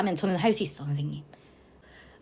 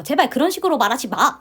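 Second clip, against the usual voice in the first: mother's anger; 4 semitones higher, 4 dB louder than usual. Retold or imitated. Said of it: "이러니까 막 화를 내세요".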